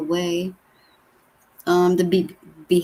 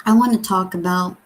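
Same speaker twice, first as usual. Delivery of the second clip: marbles in mouth; 3 semitones higher than usual. Real, not acted. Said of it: "I'm gonna sound like a, like I got marbles in my mouth".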